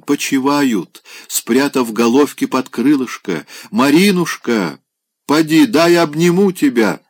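высоко, медленно, приторно; тянет слова, как захмелевший старик; пьяное умиление. Acted. Пьяный Опёнкин умиляется, лезет обниматься. (Опёнкин тянется обнять Марину, высоко и приторно)

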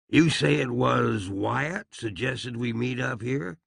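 ordinary delivery

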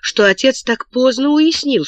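plain reading voice

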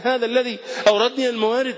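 هذا الذي أوردني الموارد lifted high, every word pressed; emphatic repeat. Retold or imitated. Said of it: "الصديق يقول على لسانه".

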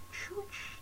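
choked whispered cry cut short; desperate wail. A narrator's reading. Banker hearing he'll be stuffed, strangled cry. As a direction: gasp out a broken cry. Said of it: "испустил отчаянный вопль".

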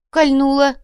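high, loud complaint of pain; pained exclamation. Acted. Manager telling the girls it stabbed him, loud and pained. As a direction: blurt out the stab.

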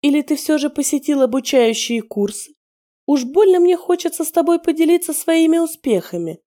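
mocking woman's voice. A narrator's reading. Captive woman mocks the interrogator, sneering. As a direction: scoff at his hypnosis attempt.

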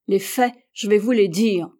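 captain threatening the American, menacing. Acted. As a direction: lean in with a threat. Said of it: "reprit avec menace Hatteras".

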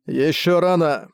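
slow, booming angel voice; deep booming voice. Acted. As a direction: let it roll out slowly over the city. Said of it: "его глубокий гулкий голос прокатился над городом".

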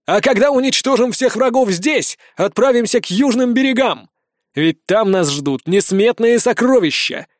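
rally the troops before you; high, emphatic oratory to a crowd; rousing leader's speech. Acted.

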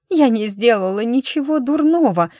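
high, loud defiant outburst; angry tearful cry; shouting. A narrator's reading. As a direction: hurl the denial at her husband. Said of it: "выкрикнула она".

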